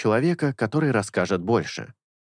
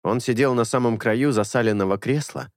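ordinary delivery, nothing marked

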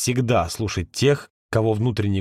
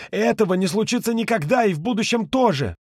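angry refusal; 9 semitones higher than usual. A narrator's reading. Ka's angry refusal continues.

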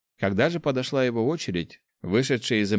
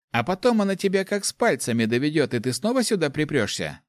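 higher, mocking warning; mocking snort; 7 semitones higher than usual. Nick mocking Chak's plan, higher and scoffing. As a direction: scoff at the idea. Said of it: "хмыкнул Ник".

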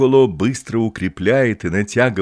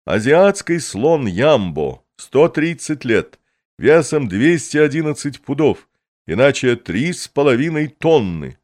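booming circus ringmaster; 5 semitones higher, 3 dB louder than usual. Acted. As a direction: announce the exhibit to the crowd. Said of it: "раздаётся голос Пикколо".

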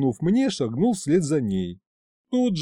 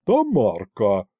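рявкнула; 3 semitones lower, 3 dB louder, slower than usual. A narrator's reading. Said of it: "рявкнула Агриппина Павловна".

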